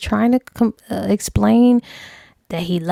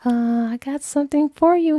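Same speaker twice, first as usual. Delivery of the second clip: sly tease; 5 semitones higher than usual. Retold or imitated. Luring him with hidden knife.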